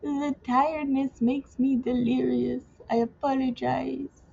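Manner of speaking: mock a wannabe King Julian accent. Tired vlogger slipping into a bad King Julian accent. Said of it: "a really bad wannabe King Julian".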